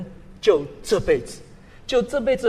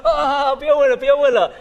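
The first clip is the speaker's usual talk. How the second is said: hurried backing down; 6 semitones higher, 6 dB louder than usual. Retold or imitated. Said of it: "那个人赶快说".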